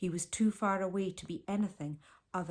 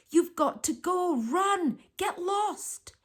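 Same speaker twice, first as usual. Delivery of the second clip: urgent whisper; 10 semitones higher, 3 dB louder, slower than usual. A narrator's reading. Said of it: "Martine whispered".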